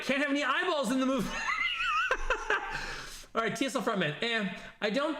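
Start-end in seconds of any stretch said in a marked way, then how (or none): 0.0-1.3 laughing. Real, not acted. Laughing at a chat joke. 1.3-3.3 shrill burst of laughter; high squealing laugh. Real, not acted. Laughing at a chat joke.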